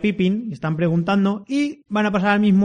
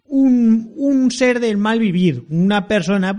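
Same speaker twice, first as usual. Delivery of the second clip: mock sinister; 5 semitones higher, 4 dB louder, slower than usual. Describing a shady character.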